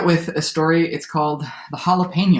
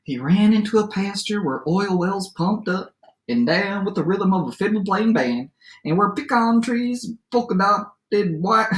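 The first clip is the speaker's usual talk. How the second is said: lively storyteller read-aloud with swooping pitch; story narration; 6 semitones higher than usual. A narrator's reading. Teacher reads a favorite adapted fairy tale aloud, lively storytelling. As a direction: read it to children as a tall tale.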